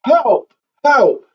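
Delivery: high-pitched mock yell for help; imitated yelling. Soldier lost in the thicket calling out, imitated yelling. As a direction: re-enact a call for help, pitched high without full volume. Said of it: "So I started yelling".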